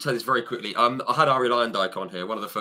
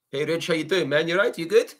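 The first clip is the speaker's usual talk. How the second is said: higher, lightly imitated Arie accent; Arie's accent; 6 semitones higher than usual. Arie greets the host at the pagoda, imitated accent. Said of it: "In his accent".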